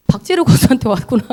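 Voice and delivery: loud line breaking into a chuckle; amused realization. Real, not acted. Mother realizing where her temper came from, amused and laughing. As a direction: say it through a laugh.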